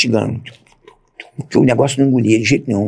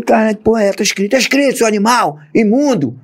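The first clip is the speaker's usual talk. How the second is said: high, indignant outburst; outraged retort; 8 semitones higher than usual. Retold or imitated. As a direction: fire back in disbelief and anger. His own outraged retort. (revolta indignada, em tom agudo)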